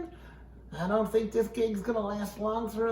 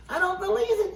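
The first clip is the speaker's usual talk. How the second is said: surprised; 12 semitones higher, 4 dB louder, faster than usual. Real, not acted. Reader reacts with disbelief.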